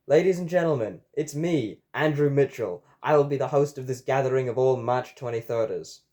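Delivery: lightly projected emcee welcome; host's announcement. A narrator's reading. Host welcomes the gathering to the club, announcing. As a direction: address the whole room as its host.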